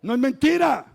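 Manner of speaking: usual speaking voice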